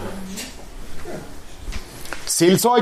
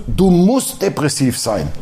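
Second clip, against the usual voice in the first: mock decree; 4 semitones lower, slower than usual. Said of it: "Bibelstelle, wo steht".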